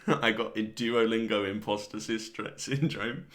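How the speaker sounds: slow, chuckling through the phrase; tickled by your own words; laughing. Real, not acted. Laughing at his own absurd phrase.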